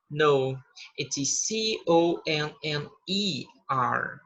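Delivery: slow correcting reply in a slightly different voice; second speaker in dialogue. Shown as a demonstration. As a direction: play the other person correcting the spelling. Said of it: "Então, não é com". (corrigindo a soletração devagar)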